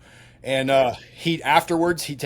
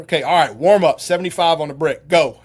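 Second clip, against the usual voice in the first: barked orders; 6 dB louder than usual. Retold or imitated. Coach barking workout orders.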